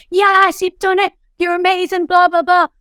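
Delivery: high, loud whooping praise; mock American cheering. Coworkers cheering the top seller, high excited whoops. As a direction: cheer like a hyped American sales floor. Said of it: "the screaming, the shouting".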